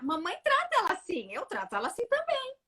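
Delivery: high-pitched imitation of a child; child's reasoning. Son copying how mother treats sister, childlike. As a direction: pitch it up like a small boy. Voicing the son's copied logic.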